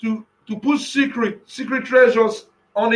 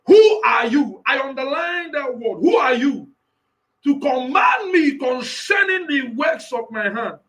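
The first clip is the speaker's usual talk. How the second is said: shouted divine challenge; voicing Jehovah; 2 semitones higher than usual. Preacher as Jehovah, shouting at the questioners. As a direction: demand an answer as God. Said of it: "look at what God says".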